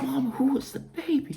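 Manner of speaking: put-on whispered child's question, soft and high; awed whisper. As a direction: breathe the question in awe.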